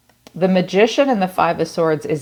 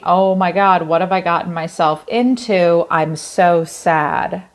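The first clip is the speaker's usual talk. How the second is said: mock despair. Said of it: "But then wait".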